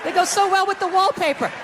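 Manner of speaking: high-pitched cooing, not actually whispered; hammed-up tender small talk; mock sweet nothings. Shown as a demonstration. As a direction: coo sweetly as if soothing someone held down. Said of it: "you whisper sweet things".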